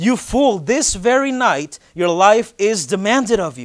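exclaimed loudly with real urgency. Speaking to the church, showing how god's words to the fool should be said, with urgency. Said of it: "Got to say it like that. An urgency".

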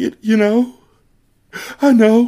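very high, light voice cracking, near tears. Showing how a voice sounds just before crying; light, cracking voice near tears. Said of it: "when your voice gets light, I guess it sounds like this".

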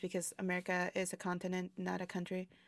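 ordinary delivery

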